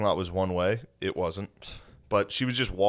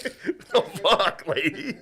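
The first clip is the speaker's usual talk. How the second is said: high, startled "what the hell" yelp; half-laughing indignant outburst; retold shocked protest; 10 semitones higher, much slower than usual. Retold shock at hard swab.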